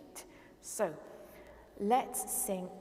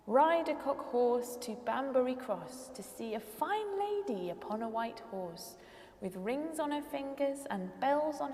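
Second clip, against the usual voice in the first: gentle rhyme for toddlers; nursery rhyme recital. Acted. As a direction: recite it sweetly, like reading to little ones.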